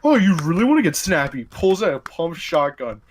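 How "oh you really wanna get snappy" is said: mock enraged snap, a bit fast and louder; hammed-up angry comeback; enraged barkeep. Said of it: "I had the barkeep go enraged".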